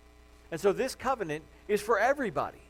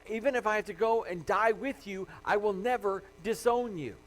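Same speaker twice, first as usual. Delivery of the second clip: retold vow, insistent and slightly higher; emphatic; 4 semitones higher than usual. Disciple swears loyalty to Jesus, emphatic. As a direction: insist on it, driving each phrase home. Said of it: "He insisted emphatically that".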